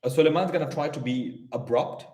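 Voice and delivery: echoey room sound; words ringing in a bare room. Real, not acted. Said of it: "It's a bit echoey".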